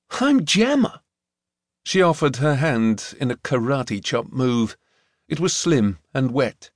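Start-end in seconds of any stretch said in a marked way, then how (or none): 0.1-1.0 higher, lighter introduction; lightly voiced girl, rising; a hint of a bright young girl; girl's voice. A narrator's reading. Gemma introduces herself.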